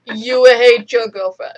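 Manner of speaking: hammed-up Jedi command; mock mind trick. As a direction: playfully plant the idea in someone's head. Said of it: "use the Jedi mind trick on him".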